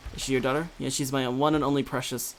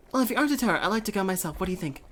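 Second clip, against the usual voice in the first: higher, lighter wife voice for the same line; wife's voice; 4 semitones higher, faster than usual. Shown as a demonstration. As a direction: redo the line as the wife, pitched up. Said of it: "reread in the wife's voice".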